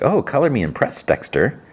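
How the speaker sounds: "Oh" lifted high, a teasing, knowing lilt; mock impressed. Gigi teasing Dexter with fake admiration, high and coy. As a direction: tease him with false admiration. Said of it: "just the way she says it".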